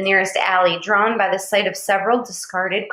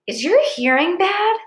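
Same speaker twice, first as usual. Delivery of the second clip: put-on a gruff, raised, higher snap at the boy; big tourist snaps at the begging boy, gruffly; growled; 10 semitones higher, 4 dB louder than usual. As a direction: bark it like a bully losing patience. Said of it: "the man growled".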